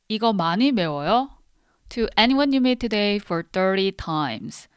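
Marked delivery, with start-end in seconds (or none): 0.1-1.3 quick Korean question. Shown as a demonstration. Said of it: "Don't forget the homework".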